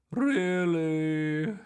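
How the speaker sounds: high loud disbelieving question; surprised. A narrator's reading. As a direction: gasp it out in disbelief. Miss Boots voiced, rising.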